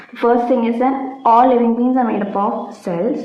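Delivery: slow, careful dictation pace. Acted. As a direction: spell it out for notes, slowly. Repeating points as dictation. (പതുക്കെ പറഞ്ഞുകൊടുക്കുന്ന രീതി)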